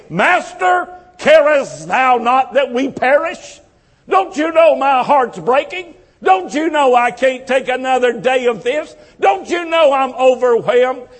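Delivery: high, anguished plea to the Master; pleading cry. Retold or imitated. A believer cries out to Jesus in despair, high and pleading. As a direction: cry out as one drowning in the storm.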